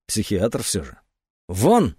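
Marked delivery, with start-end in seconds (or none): 1.5-1.9 рявкнула. Acted. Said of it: "рявкнула она".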